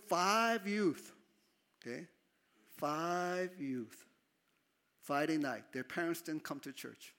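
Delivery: ordinary delivery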